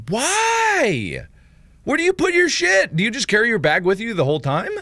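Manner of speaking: high-pitched, incredulous questioning; baffled disbelief. Real, not acted. Streamer learning English schools lack lockers, baffled and incredulous. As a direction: demand answers in an astonished squeak.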